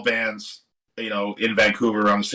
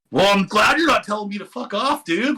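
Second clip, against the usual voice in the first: higher, amused imitation of a friendly rock star; amused retelling; 8 semitones higher than usual. Retelling a musician's reply to the narrator, higher and amused. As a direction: play it up as a laughing, friendly voice.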